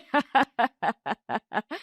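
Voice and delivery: long taunting laugh; drawn-out scornful laughter; mocking laugh. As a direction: laugh at the milkman's expense. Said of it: "Sumitra लगातार हंस रही थी".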